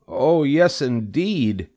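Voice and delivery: high, eager agreement; high-pitched happy Wilbur; delighted pig character. A narrator's reading. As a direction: agree with glee in a little pig's voice.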